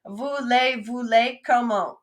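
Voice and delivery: clear, careful Voulez, voulez, comment; teacher models the phrase for the class to repeat; model for repetition. Shown as a demonstration. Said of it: "I'll say it and then you say it".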